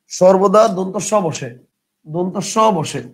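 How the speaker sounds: each word drawn out for writing down; slow dictation. Shown as a demonstration. Teacher dictating the rule slowly to students. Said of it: "লিখেন".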